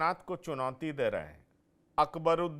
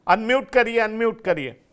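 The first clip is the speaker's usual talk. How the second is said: calling out; 3 semitones higher, 5 dB louder than usual. Real, not acted. Anchor calling to muted guest.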